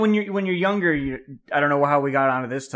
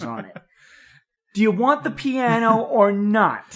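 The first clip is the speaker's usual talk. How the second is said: pushy sales pitch, slowing on key words; shady seller pressuring a buyer. Pretend. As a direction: sell it like a sleazy Craigslist guy. Plays the shady piano seller.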